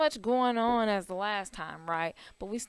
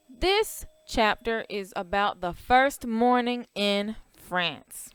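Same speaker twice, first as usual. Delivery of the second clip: poem reading; slower than usual. Real, not acted. Teacher reading the poem chapter to class, measured storybook recital. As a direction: read the rhyme slowly, with pauses between phrases.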